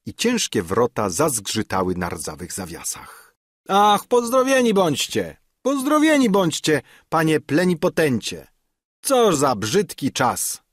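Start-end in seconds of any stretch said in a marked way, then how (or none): 3.7-10.6 put-on high-pitched, exclaimed welcome from an old servant; effusive greeting. A narrator's reading. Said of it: "Tymi słowy witał nas Franciszek". (wylewne, wysokie powitanie)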